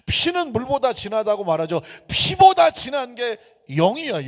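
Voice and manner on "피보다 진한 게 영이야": high and loud declaration; emphatic proclamation. Real, not acted. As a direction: proclaim it boldly. Preacher proclaims key line.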